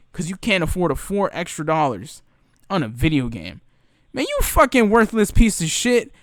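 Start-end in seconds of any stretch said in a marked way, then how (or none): 4.1-6.1 loud, higher insult yelled out; furious insult. Real, not acted. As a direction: spit the insult out in real anger. Ranting at a rude customer.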